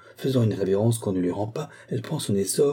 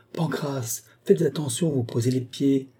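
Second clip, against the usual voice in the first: higher, careful caution; anxious warning; 5 semitones higher than usual. Acted. Majordomo cautioning a boy carrying bottles, mildly anxious. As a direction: warn him to watch his step. Abbé warning laden lad.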